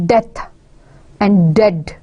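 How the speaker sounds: death and dead, spaced apart with a drop on dead; emphasis on the word. Shown as a demonstration. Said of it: "We are emphasizing on the first syllable".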